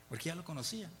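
usual speaking voice

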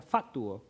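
"Fatuo" with the accent on the A; stress on the A. Shown as a demonstration. Preacher checking how the word is said, stressing the A in "Fatuo". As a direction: lean on the first syllable of "Fatuo". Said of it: "con acento en la A".

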